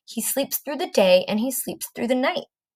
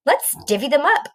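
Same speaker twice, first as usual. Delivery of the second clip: quick higher cheerful badger voice; grinning badger; 6 semitones higher, faster than usual. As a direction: badger sharing with a grin. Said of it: "Badger says with a grin".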